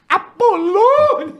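high, slow drawn-out call of a name; grandma calling out. Retold or imitated. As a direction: call the name like an old grandma across the house. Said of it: "A minha avó assim, ó".

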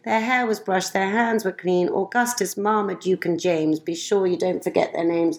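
lilting rhymed storybook reading; reading verse aloud. Acted. Mother reading a rhyming poem to a friend, lilting. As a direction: read the couplets to a child with a gentle bounce.

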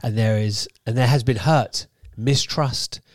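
measured, slow read-aloud delivery; deliberate magazine-article narration. Acted. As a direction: read it out deliberately, weighting key words.

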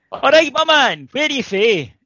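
put-on high, loud drunken greeting; drunk guy. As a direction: holler like a friendly Glasgow drunk. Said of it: "this little drunk guy who was on".

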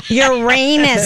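Uranus with a long, stretched RAY in the middle; drawn-out pronunciation. Shown as a demonstration. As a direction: say Uranus slowly, as your-RAY-nus. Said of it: "Is that how you say Uranus?".

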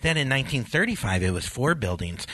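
high, dreamy gawking traveler; oblivious tourist voice. Retold or imitated. Mocking dawdling airport walkers.

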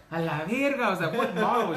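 dad cracking up at his daughter; laughing disbelief. Real, not acted. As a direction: react to the request with amused shock. Daughter asks for a Tesla.

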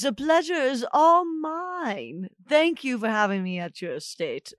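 lady's voice. Acted. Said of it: "forgive the voice".

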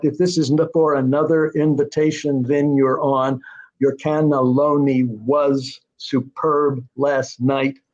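measured beat, slowing markedly on "cannelloni was superb last night"; metrical iambic stress. Shown as a demonstration. Writer demonstrating the character's line in iambic meter, stressed beat by beat. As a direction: scan it aloud, weak-strong, leaning on LO in "cannelloni" and PERB in "superb". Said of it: "emphasis has to be on".

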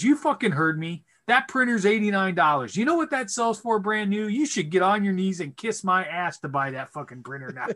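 retold tirade, high and worked up; angry berating. Dad telling off a customer over a cheap printer, angry.

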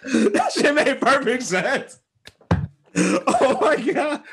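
high, slow words squeezed through real laughter; helpless high-pitched laughing delivery; laughing hard. Real, not acted. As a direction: talk while cracking up. Still cracking up at impression.

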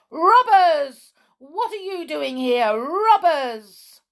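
loud, high accusing cry; high-pitched outraged holler; alarmed shouting. A narrator's reading. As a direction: challenge intruders at full voice. Gnomes raise the alarm.

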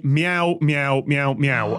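lightly imitated meows, stepping down in pitch; cat meowing. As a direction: read out meows as if they were words. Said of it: "instructions that just say".

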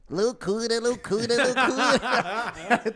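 high, loud cartoon voice, last word drawn out; cartoon character shouting a TV host's catchphrase; Bob Esponja. Sponge asked to impersonate Luciano Huck, same high cartoon voice. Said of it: "então faz Luciano Huck".

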